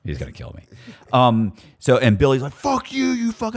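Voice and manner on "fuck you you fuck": high, sharp mock yell at Billy; retold yelling. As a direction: spit it back like a prison insult. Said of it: "so we're yelling back and forth".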